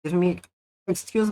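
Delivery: eating while talking; talking between bites; mouth full. Real, not acted. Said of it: "eating in between bites".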